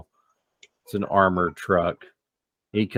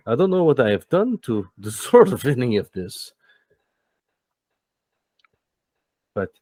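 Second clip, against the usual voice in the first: much higher, slow, half-laughing menace; ominous Max; 5 semitones higher than usual. Acted. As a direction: Max replying to the players' jab, high and sly. Max answering the players.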